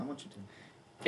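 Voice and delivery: breathy teasing whisper. Real, not acted. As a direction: whisper it slyly and slowly. Egging friend on to be racist.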